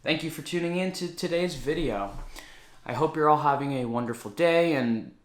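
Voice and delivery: talking in a reverberant echoey room. Real, not acted. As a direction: voice bouncing around an echoey space. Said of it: "it's really echoey in here".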